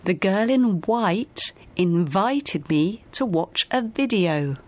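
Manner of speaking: slow model reading, W in WHITE, V in INVITED; V practice sentence. Shown as a demonstration. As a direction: separate WHITE from the buzzing V of VIDEO. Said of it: "Whenever you need a V sound".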